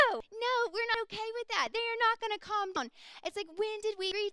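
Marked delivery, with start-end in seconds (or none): 0.1-2.9 high, loud refusal; defiant outcry. Retold or imitated. Youth pastors refuse the older members' advice, loud and high. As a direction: push back hard on the elders.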